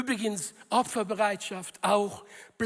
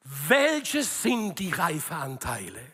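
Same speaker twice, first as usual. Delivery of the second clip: devoted believer praying; 4 semitones lower than usual. Acted. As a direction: demonstrate a lower-pitched heartfelt prayer. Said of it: "reden so mit ihrem Gott". (vorgemachtes, eindringliches Gebet in tiefer Stimme)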